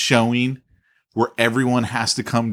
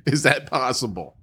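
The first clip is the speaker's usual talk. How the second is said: incredulous; 3 semitones higher, slower than usual. Real, not acted. Baffled disbelief.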